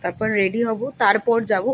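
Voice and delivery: talking through a toothbrush; while brushing teeth. Real, not acted. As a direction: mouth full of toothpaste. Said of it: "এখন তো brush করছি".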